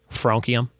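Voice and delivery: "francium" as FRAHN-kee-um; alternative pronunciation. Shown as a demonstration. Quiz host testing ways to say an element, broad-a hard-k version. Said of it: "I don't know how to say it".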